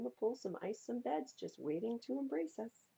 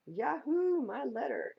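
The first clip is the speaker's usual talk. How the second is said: high, loud cheer; excited yahoo; 7 semitones higher, 7 dB louder than usual. Acted. Child spotting the last license plate, loud cheer. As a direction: whoop it out. Finally finds her letter.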